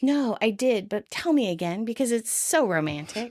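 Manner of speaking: sarcastic; mock interest, leaning on the gushing words; Rachel. Rachel humours Joey's boasting, sarcastically. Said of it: "Rachel sarcastically offers".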